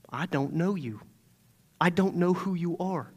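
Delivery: quiet verdict with no way back; Jesus disowning. Acted. Jesus voiced rejecting them.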